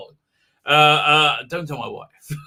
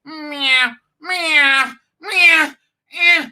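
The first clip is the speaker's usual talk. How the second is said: higher and higher yowling meows; imitating cat mating cries; 7 semitones higher, 3 dB louder, much slower than usual. Host mimics the noisy neighbourhood tomcat, rising yowls. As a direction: yowl like a tomcat in heat, rising. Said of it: "he's like".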